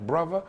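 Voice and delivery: "brother" said bruvver with a v. Shown as a demonstration. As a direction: swap the th in "brother" for a v. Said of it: "It becomes a V".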